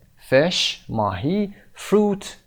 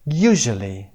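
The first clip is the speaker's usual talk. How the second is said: "usually" with a strong opening U; stress on first syllable; much slower than usual. Shown as a demonstration.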